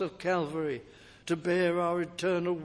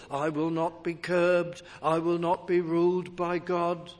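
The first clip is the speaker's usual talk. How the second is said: lightly voiced proud rebel; a hint of a boastful worldly man; voicing a defiant sinner. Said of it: "Do you sow there".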